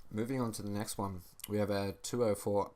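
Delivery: talking through a mouthful of toast; words round a bite of food; chewing noisily. Real, not acted. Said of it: "pardon me, by the way, I'm eating toast".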